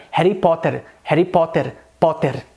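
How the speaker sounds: "Harry Potter" with rolled Indian Rs; Indian-accented example sentence; Indian English accent. Shown as a demonstration. Teacher demonstrating the R for learners, Indian accent. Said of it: "um R de baralho".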